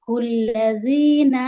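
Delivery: الذین slowly, with a soft dh sound; chanted الذین with a softened consonant; soft zaal. Shown as a demonstration. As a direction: keep the ذ in الذین gentle, stretching the ee. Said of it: "زال کو نرمی سے پڑھیں گے".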